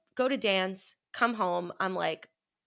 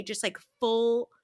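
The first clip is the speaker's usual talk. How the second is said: ordinary talk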